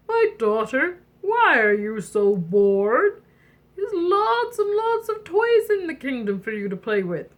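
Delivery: lightly voiced king, puzzled by the boredom; a hint of a storybook king; king father. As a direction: stretch the question like a doting father. King answers his daughter.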